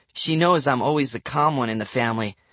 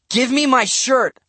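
high, forceful demand; raised, furious boy; angry shout; 10 semitones higher, 4 dB louder than usual. A narrator's reading. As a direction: yell it as an order. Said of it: "I shouted".

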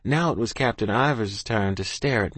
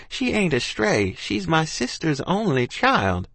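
pleading aunt; 6 semitones higher than usual. Acted.

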